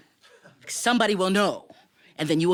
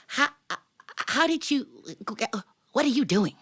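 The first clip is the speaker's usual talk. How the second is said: puzzled mouse; 5 semitones higher than usual. Acted. Mouse confused by the scene.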